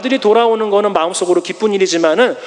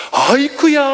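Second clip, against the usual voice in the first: joyful exclamation; 5 semitones higher than usual. Acted. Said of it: "하면서 막 달려가는".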